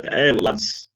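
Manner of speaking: put-on light German-accented call to the lads; hint at a German manager's accent. Manager addressing his players, in a light German accent. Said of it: "in, in a German accent".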